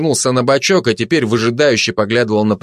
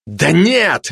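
higher, mildly cross retort; impatient raised-pitch correction; annoyed; 6 semitones higher than usual. Acted. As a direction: object with a touch of anger. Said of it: "рассердился фашист".

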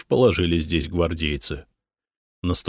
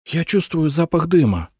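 ordinary delivery, nothing marked

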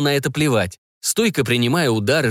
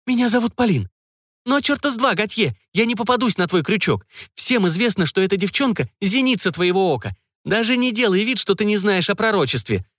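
put-on a higher young woman's snarl, lightly done; bare your teeth at him in words; a mild mock growl at the brotherhood leader; growled defiance; 10 semitones higher than usual. A narrator's reading. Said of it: "зарычала незнакомка".

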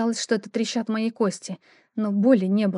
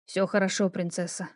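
tender; 2 semitones lower, 5 dB quieter than usual. Acted. He comforts her tenderly.

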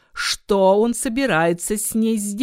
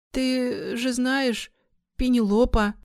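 slow, high, cracking voice; voice breaking; 6 semitones higher, slower than usual. A narrator's reading. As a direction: let the voice crack with fear. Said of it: "но он срывался". (срывающийся голос)

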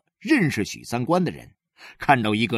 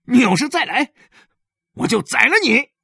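louder, higher menacing threat; 7 dB louder, faster than usual. Acted. He Xiaoyong threatening Yile at the alley mouth, loud threat. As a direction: warn him off for good.

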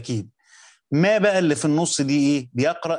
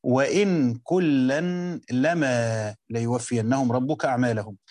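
slow reading of the verse; slower than usual. Shown as a demonstration. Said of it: "فهو يقرأها".

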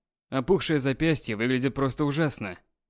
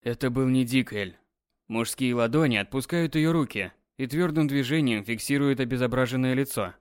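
ordinary delivery

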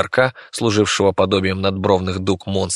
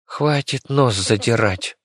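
grumbled rebuke; 2 semitones higher, slower than usual. Acted. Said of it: "пробурчала Вики".

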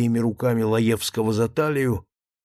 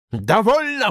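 breathless; 10 semitones higher, 5 dB louder than usual. A narrator's reading. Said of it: "задыхаясь и беря фуражку".

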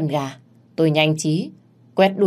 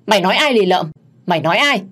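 louder, offended demand; angry challenge; 3 semitones higher, 5 dB louder, faster than usual. Acted. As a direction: fire back at the insult, louder. Rival insulted, snaps back in quarrel. (tức giận vặn hỏi)

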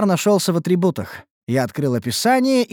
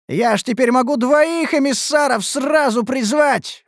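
higher, excited exclamation; exclaiming; 9 semitones higher than usual. A narrator's reading. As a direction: blurt it out thrilled. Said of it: "воскликнул я". (восторженно воскликнув)

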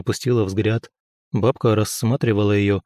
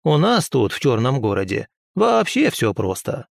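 put-on advising old woman. Old healer explains Black City ways to the prince. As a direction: teach him like a village witch.

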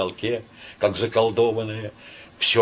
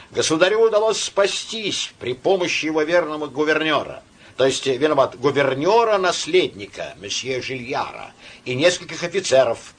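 put-on drunk officer; 6 semitones higher, 3 dB louder than usual. A narrator's reading. Drunk officer voiced in story.

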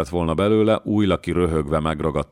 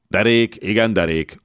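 understanding nod; 5 semitones higher, 4 dB louder than usual. A narrator's reading. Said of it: "bólogatott Újlaki megértően".

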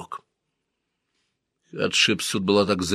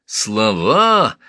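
louder snarled repeat; angry snarl; 2 semitones higher, 6 dB louder than usual. Acted. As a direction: snarl it again, harder. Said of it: "оскалился Тутмос".

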